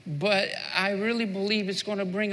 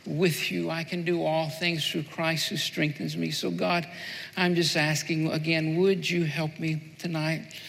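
prayer; 3 semitones lower than usual. Acted. Pastor praying aloud to God.

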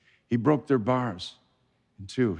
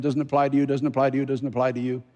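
rapid disclaimer; faster than usual. Acted. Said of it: "voice that goes a hundred miles an hour".

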